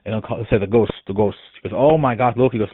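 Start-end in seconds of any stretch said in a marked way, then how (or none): 0.6-1.4 lightly imitated heavy Spanish accent. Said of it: "he has a kind of heavy accent". 1.8-2.5 louder, lightly imitated Spanish accent; strange Spanish accent. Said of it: "he's a very strange accent".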